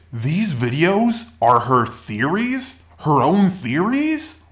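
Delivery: slow questions rising at the end; mock disbelief. YouTuber answering a hate comment about theories, mock disbelief. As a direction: feign puzzlement, drawing each question out. Feigned puzzlement at a viewer's comment.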